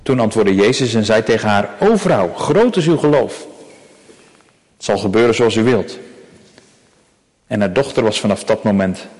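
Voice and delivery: measured, solemn reading of a Bible passage; scripture reading. Acted. Preacher reading scripture aloud to the congregation, solemn and measured. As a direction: read the text to the congregation with gravity.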